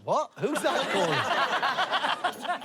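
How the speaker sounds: high, drawn-out puzzled call; star calling back. Retold or imitated. Rod answering from his yacht, high drawn-out call. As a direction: answer a far-off shout, stretching it out.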